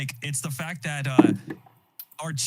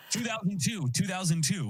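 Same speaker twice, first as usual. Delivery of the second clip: calling out; 6 semitones higher than usual. Real, not acted. Calling out the answer.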